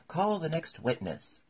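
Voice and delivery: loud, high royal order; commanding call. A narrator's reading. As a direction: call it out across the court. King gives order in court.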